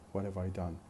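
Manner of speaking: "have" weakened to "uv", glued to "What"; reduced "have". Shown as a demonstration. Teacher showing learners weak auxiliaries, reduced "have". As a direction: run "What have I done" together as "whatuv-I done". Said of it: "we say have".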